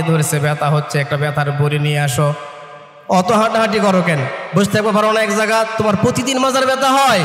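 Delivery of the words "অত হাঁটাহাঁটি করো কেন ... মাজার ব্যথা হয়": fast, irritated rush of complaints; impatient snapping. Retold or imitated. Son brushing off his father's backache, fast and irritated. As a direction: rattle it off like an annoyed son.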